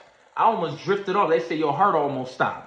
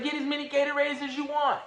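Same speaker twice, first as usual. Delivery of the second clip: high, much higher, fussing voice; mock fussing staff; 11 semitones higher, 4 dB quieter than usual. Golf shop staff fussing over him, voiced high. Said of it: "They was like".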